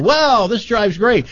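high, drawn-out pretend wow; mock amazed review. Mimics his own naive car review.

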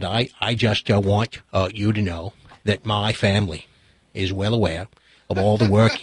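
put-on low, halting senator in a Boston accent; gracious Kennedy impersonation, pitched well down; Ted Kennedy. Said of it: "pretending to be Ted".

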